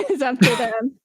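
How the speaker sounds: words squeezed out through a laugh. Real, not acted. Guest laughing off the fans' thirst, chuckling. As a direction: laugh it off as you finish the thought. Trails off laughing about the fans.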